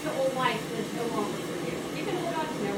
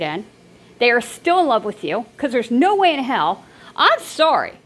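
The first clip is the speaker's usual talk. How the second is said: louder and louder, a heated real rant; passionate rant; 5 dB louder than usual. Real, not acted. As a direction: let the frustration build into loud scolding. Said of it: "I'm sorry I'm passionate about this".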